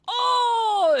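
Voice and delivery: very high, loud "oh"; mock sudden realization. Traveler imitating the listener who understands, hammed-up realization. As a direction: exaggerate the moment it clicks. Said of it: "the person was just like".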